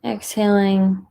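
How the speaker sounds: calm, unhurried guidance with long pauses; guided meditation. Acted. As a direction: gently guide listeners into stillness, leaving space between phrases.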